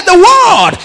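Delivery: high, loud, emphatic; shouted answer. Retold or imitated. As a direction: hammer the answer home. Preacher answers loudly.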